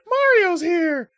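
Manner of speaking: very high, slow excited call. Retold or imitated. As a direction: shout out the good news. Peach calling out excitedly.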